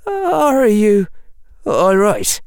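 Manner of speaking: put-on high, wavering worried boy; a nervous quaver, voice unsteady. A narrator's reading. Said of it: "said Seamus in a wavering voice".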